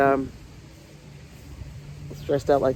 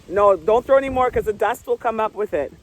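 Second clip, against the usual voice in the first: put-on higher, fussy granny warning the kids; granny scolding; 8 semitones higher than usual. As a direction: scold like a fussing grandma. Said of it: "Oh, I sound like a granny".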